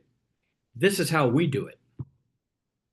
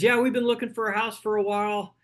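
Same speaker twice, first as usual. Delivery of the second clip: imitating a buyer; 7 semitones higher than usual. Frustrated buyer telling agent their search, mildly weary. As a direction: lightly voice a fed-up house hunter. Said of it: "Somebody says".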